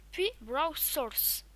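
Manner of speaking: "Browse Source" said slowly with an English accent; English accent on "Browse Source", drawn out. Real, not acted. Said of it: "Désolé pour mon accent anglais". (accent anglais sur "Browse Source", lentement)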